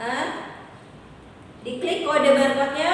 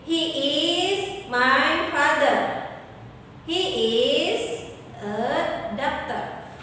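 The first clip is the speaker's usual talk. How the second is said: slow model sentence. Shown as a demonstration. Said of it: "kita ganti nih yang she-nya jadi he".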